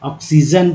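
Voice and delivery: ऑक्सीजन said "ok-si-jan" with a clear ks; teacher showing the x in ऑक्सीजन; oxygen example. Shown as a demonstration. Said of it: "एक्स को तो एक्स बोलते हैं".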